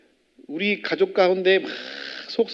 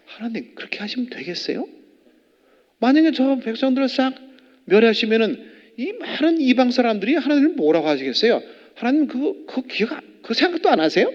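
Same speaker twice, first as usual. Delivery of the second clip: pleading protest; 7 semitones higher than usual. Retold or imitated. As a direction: argue with God like Moses begging him to reconsider. Moses arguing with God.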